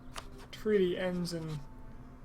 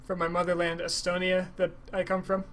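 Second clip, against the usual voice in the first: put-on Estonian accent. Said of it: "This is my Estonian accent".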